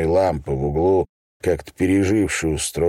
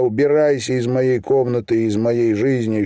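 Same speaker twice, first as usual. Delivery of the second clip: angry bark; 3 semitones higher than usual. Acted. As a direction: drive the father out for good. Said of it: "рявкнул я".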